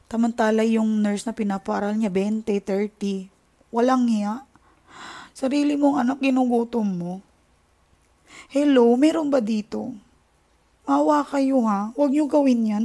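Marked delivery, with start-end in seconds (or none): 5.4-12.8 higher and louder, begging; impassioned plea. Real, not acted. Vlogger begging viewers not to neglect their kids, raised voice. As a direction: plead with them not to do it, voice raised.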